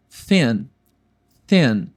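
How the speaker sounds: thin com a língua no dente; thin ensinado. Shown as a demonstration. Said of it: "esse T H é com a linguinha no dente". (thin pronunciado com a língua no dente)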